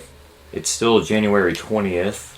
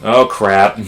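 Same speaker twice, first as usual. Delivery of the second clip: frustrated exclaim; 2 semitones higher, 7 dB louder than usual. Real, not acted. Game mishap.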